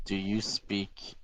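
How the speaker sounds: slow, halting question, rising at the end; slow, spaced-out question; careful in-character question. Acted. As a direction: ask it tentatively, drawing the words out.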